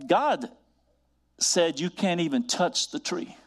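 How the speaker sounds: a hint of the sneaky serpent twisting God's word; lightly voiced serpent, drawn out and coaxing. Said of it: "the serpent said to Adam".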